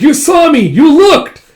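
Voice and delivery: high, loud acted shriek; retold scream. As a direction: shriek it as an outraged accusation. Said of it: "she screams".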